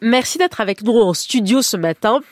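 stuffy nose from a cold; blocked nose. Real, not acted. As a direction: talk through a blocked nose. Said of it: "pardon pour mon nez".

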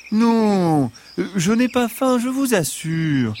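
high, gentle fox voice; reassuring fox voice. Acted. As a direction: assure them sweetly, as the fox.

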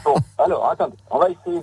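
echoing from the shower; boomy, distant like a tiled bathroom. Real, not acted. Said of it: "on vous entend plus du tout". (voix qui résonne dans la salle de bain)

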